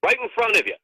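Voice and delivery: exasperated retort. Retold or imitated. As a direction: spell it out to someone who should know. Retold argument with a local.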